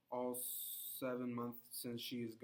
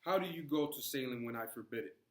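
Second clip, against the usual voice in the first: furious; 4 dB louder than usual. Acted. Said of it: "furious, and says".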